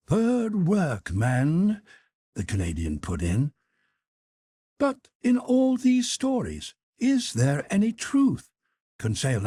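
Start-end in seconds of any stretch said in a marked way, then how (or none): 0.1-1.8 slow, higher drawl of a rough sailor; lightly voiced harpooner, amused; Canadian harpooner scoffing at bishops; Ned Land voice. A narrator's reading. Ned Land's voice. 4.8-8.5 much higher, curious servant; lightly voiced eager young servant; Conseil voice. A narrator's reading.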